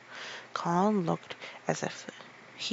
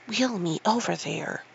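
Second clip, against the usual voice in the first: commanding. Acted. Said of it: "he commanded".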